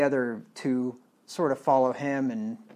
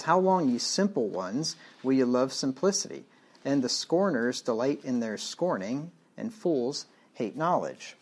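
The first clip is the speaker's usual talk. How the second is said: a raised, slowed rebuke to the simple; emphatic scripture reading. Acted. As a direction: read it as a rebuke that rings out. Scripture read aloud emphatically.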